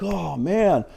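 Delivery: imitating Luke panicking over his sunk ship; freaking out. Luke panicking to Yoda about his sunken ship, mock panic. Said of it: "and he's freaking out".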